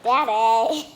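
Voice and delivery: loud call across the house. Real, not acted. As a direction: shout for dad in the kitchen. Calling dad from another room.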